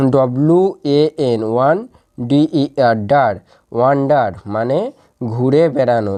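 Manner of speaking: slow: ওয়ান, ডার, then ওয়ান্ডার; slow syllable drill. Shown as a demonstration. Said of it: "তাহলে এর একসাথে উচ্চারণ কি". (ধীরে ধীরে ওয়ান আর ডার আলাদা করে)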